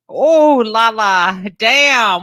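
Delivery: high, loud giddy exclaim; excited. Real, not acted. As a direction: squeal with scandalized glee. Cohost reacts, laughing.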